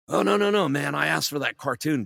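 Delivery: loud, high mimicked protest; exasperated. Boss correcting the wrong Dudley, loud mock exasperation. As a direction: cry out in mock dismay at a mistake.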